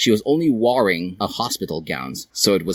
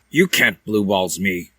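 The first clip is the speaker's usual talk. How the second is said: flat. A narrator's reading. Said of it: "he said flatly".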